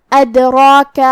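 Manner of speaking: ادراک with the dal bounced and a heavy ra; qalqala on dal. Shown as a demonstration. Teacher demonstrates qalqala in ادراک. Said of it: "ہمیں حرف دال کو ہلاتے ہوئے یہ کلمہ کو ادا کرنا ہے".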